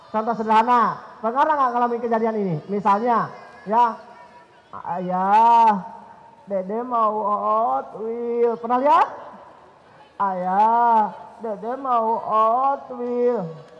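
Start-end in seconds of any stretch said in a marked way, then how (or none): 4.8-8.6 put-on slow, low, drawn-out little-kid plea; child begging. Small child begging father for Hot Wheels, drawn-out plea. 10.2-13.7 put-on slow, low, drawn-out little-kid plea; child begging. Small child begging father for Hot Wheels, drawn-out plea.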